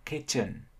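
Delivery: KITCHEN as "KIT-chən", ending on a neutral vowel; schwa in second syllable. Shown as a demonstration. Teacher demonstrating the accepted option, KITCHEN with schwa ending. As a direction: reduce the end of KITCHEN to a schwa. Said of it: "phát âm gần như âm schwa".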